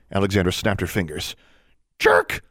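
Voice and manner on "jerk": very high, loud bird squawk; raven's voice. A narrator's reading. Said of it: "Charlie responded".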